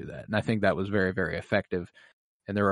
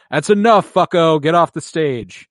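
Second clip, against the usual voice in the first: mock impatient shout; 6 semitones higher, 7 dB louder than usual. Tywin cutting off the speech, loud and impatient. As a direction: cut him off like an impatient lord. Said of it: "Tywin Lannister goes".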